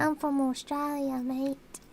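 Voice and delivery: put-on playful Australian accent with mate. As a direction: lean into the Aussie accent. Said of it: "by my thick Australian accent".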